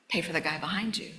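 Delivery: soft, hushed voice of God; quiet whisper of a divine nudge; inner voice. Retold or imitated. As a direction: say it like a quiet prompting inside you. Inner voice again.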